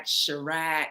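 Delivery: "Chirac" said as shuh-RACK; first syllable of "Chirac" shrunk to shuh; alternate pronunciation. Shown as a demonstration. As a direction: say "Chirac" with a short, weak first vowel. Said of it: "I pronounced her name three or four different ways".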